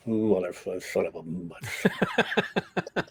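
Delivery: a sulking passenger cursing low in the back; muttered cursing. Retold or imitated. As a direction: swear quietly to yourself, stretched out slowly. Angry friend cursing in the back seat.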